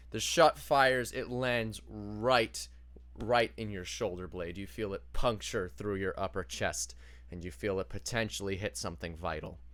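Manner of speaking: low, measured storytelling; game master scene setting. Acted. Game master telling a player they are shot, low narration.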